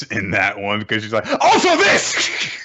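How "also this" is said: very high, drawn-out squeal with laughter; gleeful mimicry. Co-host mimics the girl's expression, gleeful squeal. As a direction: squeal it slowly through a laugh.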